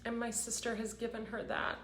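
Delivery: high, choked-up voice with long pauses; really fighting tears while speaking of family; emotional, near tears. Real, not acted. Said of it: "this is making me so emotional".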